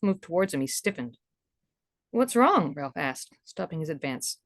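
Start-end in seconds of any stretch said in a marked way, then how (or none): 2.1-2.7 Ralph's voice. Acted. Ralph sees lover stiffen.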